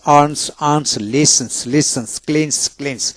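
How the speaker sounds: রানস with a plain "s" after the n; dental S ending. Shown as a demonstration. Teacher showing students S after N, dental S demonstration. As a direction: end ওপেন্স on a dental "s". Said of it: "তখন দন্তাস্য জুন".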